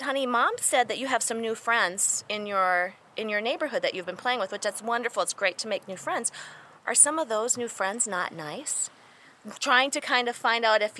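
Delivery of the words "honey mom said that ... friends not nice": soft, careful caregiver talk; gentle questioning. Retold or imitated. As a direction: coax a small child to confide. Retelling gentle questioning of a child.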